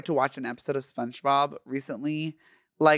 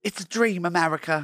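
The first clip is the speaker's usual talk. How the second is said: put-on amateur Australian tourist accent; 2 semitones higher than usual. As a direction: put on a loose Aussie accent. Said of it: "do an Australian accent".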